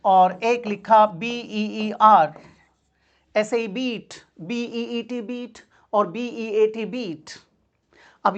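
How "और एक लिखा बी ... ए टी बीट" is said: slow, spelled letter by letter; spelling out. Shown as a demonstration. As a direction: spell each letter out slowly. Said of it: "यहाँ पर लिखा बियर". (अक्षर-अक्षर धीरे बोलना)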